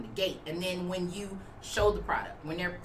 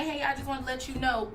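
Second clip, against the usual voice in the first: friendly pitch; 5 semitones higher than usual. Shown as a demonstration. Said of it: "that's how I would do it".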